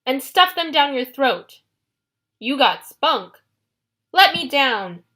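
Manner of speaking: slow, loud threats; loud stubborn shouting; defiant. Acted. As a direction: hurl threats while hanging. Captive girl threatens monster.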